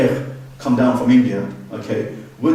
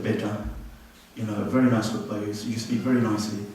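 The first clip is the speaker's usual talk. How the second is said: lightly voiced elder, soft and low; hint of a kindly uncle giving feedback; elderly uncle; 4 semitones lower, 6 dB quieter than usual. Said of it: "a kind of Uncle G people came to me".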